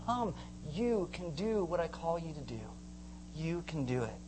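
soft, steady reassurance; gentle encouragement. Retold or imitated. Jesus passing by, calling you out, gentle encouragement. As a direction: call them gently and assure them.

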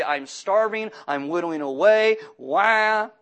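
loud whining wail; whiny starving voice. Retold or imitated. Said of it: "This is literally".

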